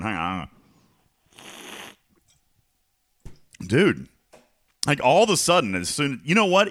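strained froggy voice. Show host who strained their voice before the show, with a frog in the throat. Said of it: "I've got a frog in my throat".

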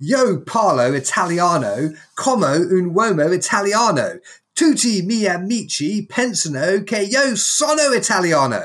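strongest English accent, very slow, on Italian. Retelling what they say to italian speakers, in a thick english accent. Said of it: "that is just the worst, strongest, most English accent".

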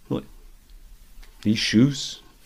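breathy, breathed-out whispered delivery. Quoting a movie scene: Paul Rudd's De Niro impression. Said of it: "an impression of Paul Rudd doing an impression of Robert De Niro".

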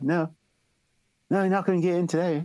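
put-on New Zealand accent, bouncer voice. Imitating the voice an Australian actor based on bouncers: New Zealand bouncer voice. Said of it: "basing that voice off of like these New Zealand bouncers".

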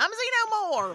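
Texan accent, very high and very loud. The little alien comes out of the alien's mouth and speaks as a Tommy Lee Jones xenomorph, Texan accent. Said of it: "and this Texan accent".

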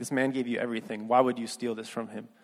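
usual speaking voice

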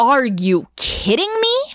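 acted-out exasperated, annoyed, disappointed scolding tone. Retelling what the speaker said to him as he chased them: annoyed mom voice. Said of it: "In my most annoyed mom slash teacher voice".

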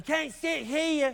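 put-on, high-pitched Southern Alabama accent. Speaker acts out kids on a school bus in a film scene, in a put-on southern alabama accent. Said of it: "in that Southern Alabama accent".

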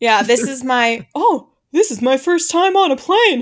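high, wide-eyed golly voice. Trying out voices, the speaker does a confused traveler in a golly voice. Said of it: "Golly voice".

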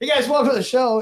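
loud, excited speech. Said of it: "Sorry, I'm excited".

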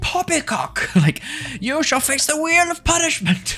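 put-on loud outbursts. Describing the village mayor's occasional outbursts heard from afar; imitating the mayor's loud exclamations. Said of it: "back to like a normal indoor voice again".

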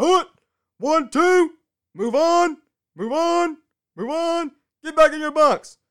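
very loud, very high, shrill drill-sergeant yell. Speaker comparing anticipation to a mental boot camp, imitating a yelling drill soldier. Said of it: "the soldier yelling".

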